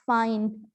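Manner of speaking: फाइन said with the weight on its syllable; stress on the second syllable. Shown as a demonstration. Teacher to class, showing where the word's stress falls. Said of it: "ई पे मेरा ज़्यादा stress पड़ रहा है".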